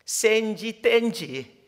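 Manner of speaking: very slow 센지 then 땐지; th sound demo. Shown as a demonstration. Preacher showing Koreans struggling with th. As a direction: drag out 센지 and 땐지. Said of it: "티에이치 발음도 잘 안 되지요".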